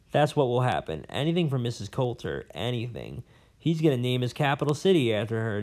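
a lightly voiced old scholar, rambling and bitter; a hint of a cranky old professor holding forth; jailed old professor. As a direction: play the disgraced academic nursing his grudges. Professor gossips about Iorfur.

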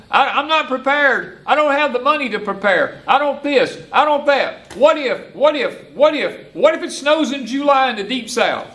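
mock panic, high and fretful, repeating what if; imitating panicked people. Preacher mimics people panicking about the future, mock panicky. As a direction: play the frightened unprepared crowd.

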